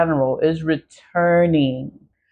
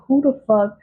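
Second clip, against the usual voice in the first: exasperated who the fuck; 6 semitones higher than usual. Retold or imitated. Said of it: "I was like".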